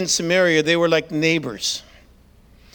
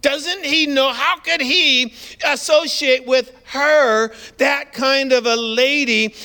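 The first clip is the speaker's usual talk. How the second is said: scandalized disciples; 4 semitones higher than usual. Retold or imitated. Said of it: "picture the disciples".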